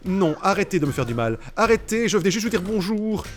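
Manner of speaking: high whiny plea, lightly voiced; pleading victim voice. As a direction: beg them to stop hurting you.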